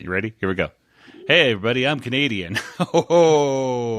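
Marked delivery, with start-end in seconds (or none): 1.3-2.6 put-on Canadian accent; light Canadian impression. Shown as a demonstration. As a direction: announce it in a mock Canadian accent. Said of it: "here's my Canadian accent".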